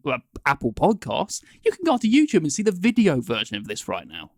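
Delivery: polished podcast host delivery, pitch often lifted. Real, not acted. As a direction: slip into presenter mode for the audience. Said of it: "That's his podcast voice he just used there".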